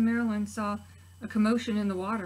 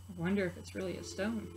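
soft wondering aside; 6 dB quieter than usual. Real, not acted. Teacher to preschoolers, soft wondering aside. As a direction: wonder quietly aloud.

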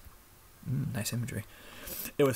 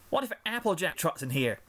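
worried filly; 6 semitones higher than usual. Acted. Applebloom voiced.

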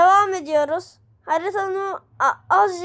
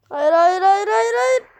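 rising protest; 3 semitones higher than usual. Real, not acted. Losing in the game.

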